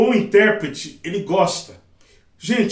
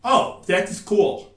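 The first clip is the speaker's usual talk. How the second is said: put-on American boy; much slower than usual. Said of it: "o menino que é americano falou assim".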